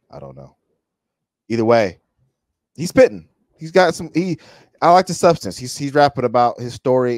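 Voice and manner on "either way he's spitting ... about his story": much higher and louder hype; real excitement, spitting praise; fired-up reaction to the bars; excited. Real, not acted. Hyped reaction to the rap.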